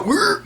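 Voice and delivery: short rolled growl like a charging bull. Shown as a demonstration. Coach urging viewers to charge, bull growl. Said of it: "You gotta go".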